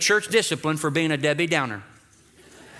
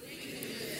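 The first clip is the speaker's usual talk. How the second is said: whisper; 20 dB quieter than usual. Shown as a demonstration. Pastor models saying it to neighbour.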